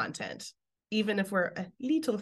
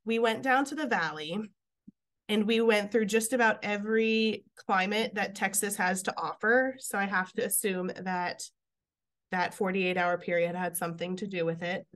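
stuffy allergy voice; congested, like inside a fishbowl. Real, not acted. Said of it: "I sound like I'm in a fishbowl".

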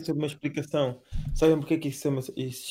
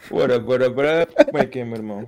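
talking around a pen; pen clenched in mouth; pen in teeth; 6 dB louder than usual. Real, not acted. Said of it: "Tá o gajo com uma caneta na boca".

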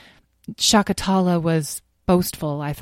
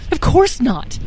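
firm; 9 semitones higher, 5 dB louder, slower than usual. A narrator's reading. Answers his own doubt firmly.

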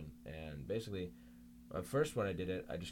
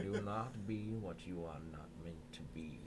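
mock wise Morgan Freeman; 3 semitones lower, slower than usual. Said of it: "people listen to Morgan Freeman".

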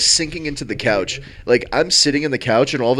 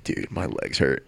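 mock whine; 10 semitones lower, 8 dB quieter, slower than usual. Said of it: "I'm like".

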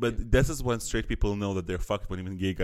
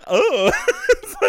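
surprised; 11 dB louder than usual. Acted. Mock surprise, loud high.

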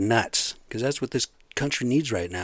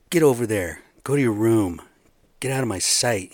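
put-on louder, a parent sending the kids to their room; mock scolding parent; 5 dB louder than usual. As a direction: bark it like a fed-up dad. Scolding kids, Seahawks as children.

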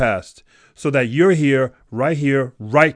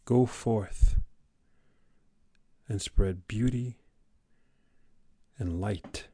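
soft, spacious send-off with long pauses; gentle benediction; 3 semitones lower, 7 dB quieter, much slower than usual. Real, not acted. Podcaster signing off with teacher's motto, gentle benediction. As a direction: bless them quietly, phrase by phrase.

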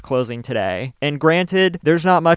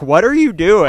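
exasperated; 7 semitones higher, 7 dB louder than usual. Real, not acted. Mocking the protesters.

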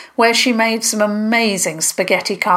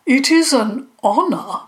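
hesitant, higher-pitched politeness; unsure, with pitch lifting; a touch of nervous modesty; less confident; 6 semitones higher than usual. A narrator's reading. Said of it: "Triclomore sounded less confident".

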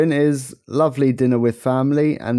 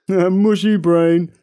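laughing; 8 semitones higher, 5 dB louder, much slower than usual. Real, not acted. Laughing at co-host's mushy brain.

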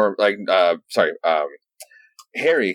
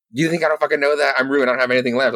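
higher-pitched, agitated protest; exasperated retort; 5 semitones higher, faster than usual. Retold or imitated. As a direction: mock-desperate comeback, pitched up. Acted despairing retort to Mephisto.

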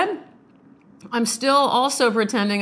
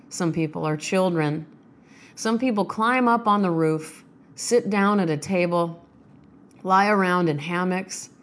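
poem reading. Acted. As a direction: let each line settle before the next. Reads a poem aloud.

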